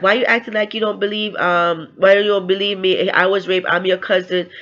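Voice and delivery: mildly hurt, insistent quote; upset retelling. Retold or imitated. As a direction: act out pleading to be believed. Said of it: "and then she got upset".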